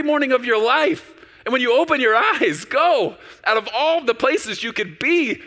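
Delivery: full-force preaching climax; fervent preaching. Acted. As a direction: cry it out with wonder. Climax of the sermon.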